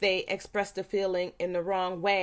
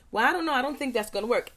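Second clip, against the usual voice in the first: dismissive parent; 4 semitones higher, faster than usual. Retold or imitated. Mom doubting her child's plan, mock dismissive. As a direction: brush off the kid's idea from up high.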